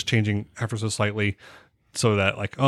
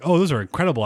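gushing; 7 semitones higher, faster than usual. Pretend. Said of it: "and be like".

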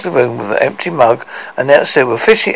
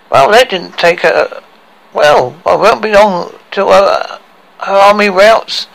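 raised gruff dwarf voice; a slightly higher dwarf voice; 5 semitones higher, 4 dB louder than usual. Acted.

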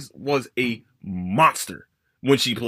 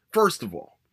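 whispered. Real, not acted. Whispered aside in rant.

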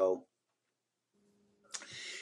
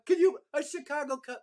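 squeaky, much higher cry of disbelief; stunned disbelief. Retold or imitated. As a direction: gasp it out like you can't believe your eyes.

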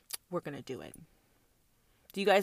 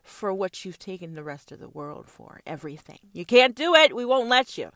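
mock defiant; 3 dB louder than usual. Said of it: "We said".

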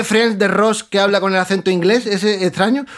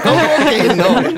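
Ramón retorting; 8 semitones higher, slower than usual. Retold or imitated. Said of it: "Y dice".

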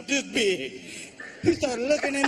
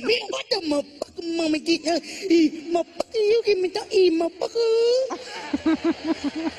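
imitating his brother; 6 semitones higher than usual. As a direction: rant it high and drag the last words. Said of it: "I said".

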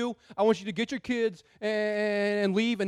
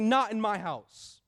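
firm refusal; slower than usual. Retold or imitated. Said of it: "stand at the front door and say".

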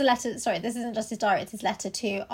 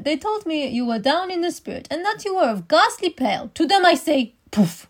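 put-on German accent; 4 semitones higher than usual. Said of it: "I only have a German one".

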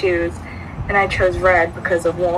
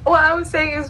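laughing; 13 semitones higher than usual. Real, not acted. Recovering from laughter.

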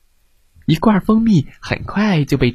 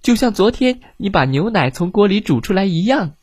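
bubbly fish voice; 5 semitones higher than usual. Acted. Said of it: "吐着泡泡咕咕地说".

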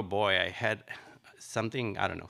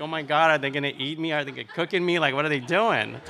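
retold child panic; 5 semitones higher, 4 dB louder, faster than usual. Scared kid buried in backyard.

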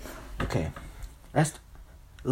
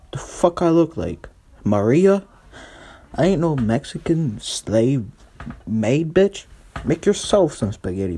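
put-on indignant girlfriend snapping back, higher; Joanna; 4 semitones higher, 5 dB louder than usual. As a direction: fire back at a demanding boyfriend. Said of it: "Joanna was like".

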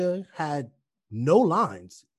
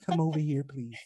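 soft, meek little request; mock politeness; 5 dB quieter than usual. Joking over-polite fighter summoning an opponent, mock politeness. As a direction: turn a battle cry into a timid plea.

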